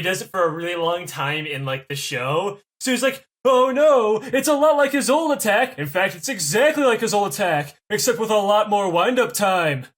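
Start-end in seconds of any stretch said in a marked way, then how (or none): 3.4-9.9 mock anime character. Mocking a show character reacting.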